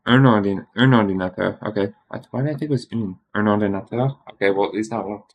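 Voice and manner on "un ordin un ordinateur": emphatic correction. Real, not acted. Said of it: "it's masculine".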